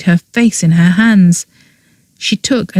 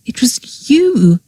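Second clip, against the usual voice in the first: breathless whispered disbelief; whispered shock at his friend's guilt; stunned disbelief; 5 semitones higher, slower than usual. A narrator's reading. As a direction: barely get the words out, stunned. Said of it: "he asked in stunned disbelief".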